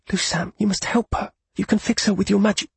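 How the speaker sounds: high, pleading desperation; desperate. Acted. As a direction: beg him urgently. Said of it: "with desperation in her voice said".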